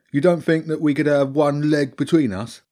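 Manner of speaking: high, loud begging rat; hopeful Bobby. Acted. Rat asks girl for one dog leg, high hopeful voice. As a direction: wheedle like a hungry rat. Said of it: "Bobby asked hopefully".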